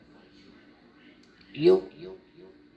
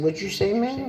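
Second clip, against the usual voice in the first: incredulous quote; 5 semitones higher than usual. Retold or imitated. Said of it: "I said".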